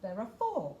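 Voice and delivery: real giggle through the words; laughing while reading. Real, not acted.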